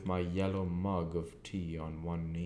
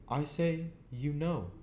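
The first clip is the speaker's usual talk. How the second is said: Joe muttering; 9 semitones higher than usual. A narrator's reading. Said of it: "muttered Joe".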